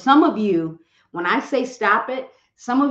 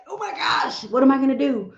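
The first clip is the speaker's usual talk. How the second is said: mock panic; 4 semitones higher than usual. Panic when Instagram went down.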